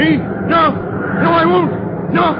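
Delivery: high, frightened refusal; terrified, backing away from the order; panicked refusal. Acted. Terrified mate refuses to climb.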